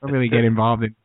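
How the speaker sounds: lightly voiced bland chef; low, hesitant cooking host; hint of a noncommittal TV cook; Chef Neutral. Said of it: "everything Chef Neutral makes is, like, very bland".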